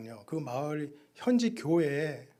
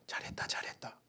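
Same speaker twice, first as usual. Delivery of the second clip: whispered praise; 6 dB quieter than usual. Retold or imitated. Praise voice heard in ears.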